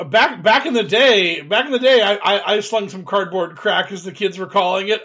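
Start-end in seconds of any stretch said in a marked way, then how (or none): 0.1-4.0 excited. Real, not acted. Reminiscing Magic card days.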